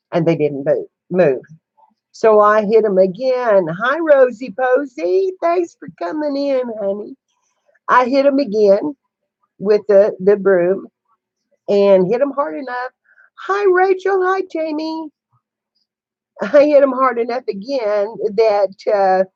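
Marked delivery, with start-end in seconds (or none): 3.7-7.2 sweet pet talk. Retold or imitated. Cooing to animals while hitting pigs. 13.4-15.1 put-on high, sing-song baby talk to a pet; sweet pet talk. Greeting animals sweetly.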